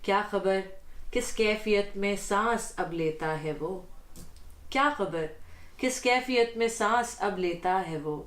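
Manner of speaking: measured Urdu poetry reading; ghazal recitation. Acted. Guest reads the host's ghazal before him, poetic recitation. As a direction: recite the couplet with deliberate phrasing.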